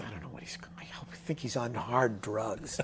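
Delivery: hushed, worried whisper; mother's worried whisper. Retold or imitated. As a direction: whisper it like a worried mom to her friends. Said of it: "commented on her friends".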